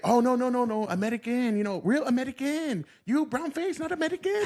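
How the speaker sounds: a lightly hammed-up foreign boss; mock Thai interviewer. Mocking Thai job interviewers.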